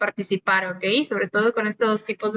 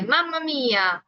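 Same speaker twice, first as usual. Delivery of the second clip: lightly mocking Italian mamma mía; a joking fake-Italian mamma mía; 3 semitones higher than usual. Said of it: "cuando fingen ser italianos de chiste".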